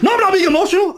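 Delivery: high, loud mock scream of denial; mocking yell. Mocking the podcast host yelling at a guest, high and loud. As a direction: ham up his shouting denial. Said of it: "why are you screaming like this".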